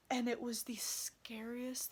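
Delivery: hushed whisper recalling the fright. Real, not acted. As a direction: whisper it like it still scares you. Recalling the scariest moment.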